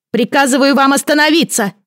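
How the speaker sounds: high, loud ringing order; ringing command. A narrator's reading. Boy king commanding the crowd to stop, loud and high. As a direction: ring out to halt everyone. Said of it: "раздался звонкий голос".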